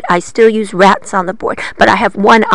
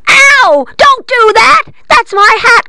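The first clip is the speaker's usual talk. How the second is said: higher, louder witch outcry; witch crying out; 14 semitones higher, 4 dB louder than usual. A narrator's reading. Witch cries out in pain, higher and louder. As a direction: cry out, hat's been found. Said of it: "cried the witch".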